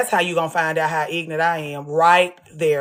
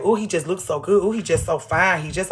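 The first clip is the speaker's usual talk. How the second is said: mock swooning woman; 4 dB quieter than usual. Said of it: "Y'all gotta be careful with my baby".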